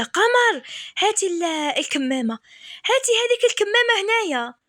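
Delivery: high, urgent begging for the mask; urgent plea. Retold or imitated. Husband panicking, begs wife for the mask, high urgent voice.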